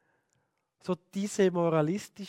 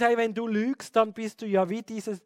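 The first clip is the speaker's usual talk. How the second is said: put-on butter the child up, then warn; coaxing parent; 4 semitones higher than usual. A parent coaxes the child to be better than liars, higher and wheedling. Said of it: "Oder man sagt dem Kind".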